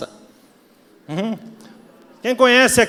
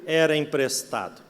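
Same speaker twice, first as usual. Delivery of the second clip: drawn-out, low lament; mock cry of woe, sinking lower; 6 semitones lower, 5 dB quieter, slower than usual. Man who lost a borrowed axe cries to his master, lamenting. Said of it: "e clamou e disse".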